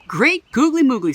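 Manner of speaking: put-on a light old man's amazement; amazed exclamation. A narrator's reading. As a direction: gasp it out in delight. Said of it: "said Old Man Fuquire".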